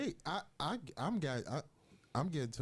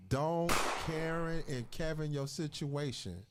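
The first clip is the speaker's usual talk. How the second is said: usual speaking voice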